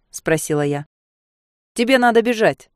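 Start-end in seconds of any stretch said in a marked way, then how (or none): 1.7-2.7 louder firm urging; a hint of a man, pressing her; firm male answer. A narrator's reading. Inner man urges her to flee, louder and firm. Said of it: "ответил мужчина".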